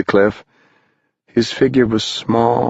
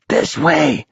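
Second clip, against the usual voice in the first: mock yell; 7 semitones higher than usual. A narrator's reading. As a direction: pretend to yell to a friend. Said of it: "they all yelled".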